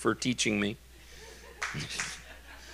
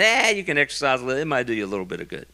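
offhand; 3 semitones lower, faster than usual. Retold or imitated. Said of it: "He said".

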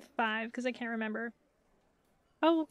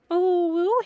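ordinary talk, nothing marked

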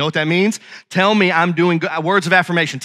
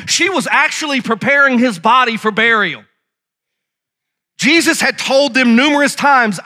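raised-pitch, punchy pulpit storytelling; emphatic preaching; 5 semitones higher, 3 dB louder than usual. Acted. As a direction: hammer home each repeated phrase. Preacher retells the Gospel story.

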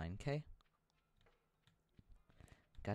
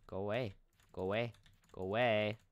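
building shout; 6 dB louder than usual. Real, not acted. Shooing bat, building.

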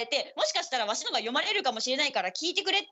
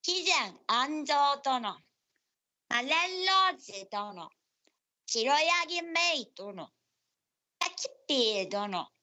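slow name reading; much slower than usual. Acted. Reads out listener names slowly.

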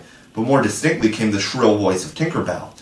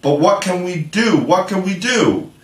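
much higher, worried wail; panicked boys; 8 semitones higher than usual. Acted. Boys facing wolves ask each other, high panicked wail. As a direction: ask helplessly, voice climbing.

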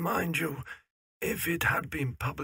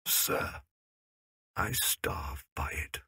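hushed confession; 10 semitones lower, slower than usual. Acted. Old shopkeeper confides his poverty.

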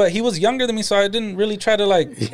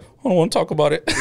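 laughing quote of son; 3 semitones lower than usual. Retold or imitated. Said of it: "And he's like".

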